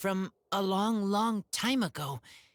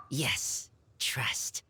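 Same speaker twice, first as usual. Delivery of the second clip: whisper; 3 semitones lower than usual. Acted. Razor speaking of Varka.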